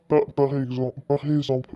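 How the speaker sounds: stumbling, restarting on the first syllable; real stammer. Real, not acted. Streamer tripping over words in front of viewers, stammering. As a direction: trip over the words and retry. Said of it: "désolé, je bégaye un peu".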